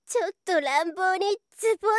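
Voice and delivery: high, loud and fast, in rapture; ecstatic cries. Acted. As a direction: rush it out, overwhelmed. Climax in erotic scene.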